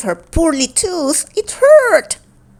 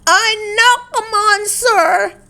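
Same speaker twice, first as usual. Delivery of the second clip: little dinosaur voice; 12 semitones higher than usual. Acted. Ava protesting.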